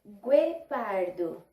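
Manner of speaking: "Guepardo" slowly, hard G; slow demo. Shown as a demonstration. Teacher checking the sound with the class, slowly. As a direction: draw out "Guepardo". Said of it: "Tem um som diferente".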